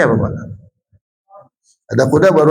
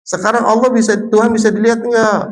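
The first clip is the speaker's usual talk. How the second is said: lightly voiced sweet teacher, higher; kindergarten teacher voice; 6 semitones higher than usual. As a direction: talk sweetly to small children. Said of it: "seorang guru mengatakan gini".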